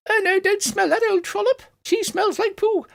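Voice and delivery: very high, catty little flower voice; squeaky flower. Acted. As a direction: squeak it, running down a rival. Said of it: "a small squeaky voice".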